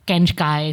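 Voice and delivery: "kenchkai", slow, K in place of F; childish "kenchkai" for French fry; speech impediment. Retold or imitated. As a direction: say "kenchkai" like a child who can't manage F. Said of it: "She couldn't say Fs".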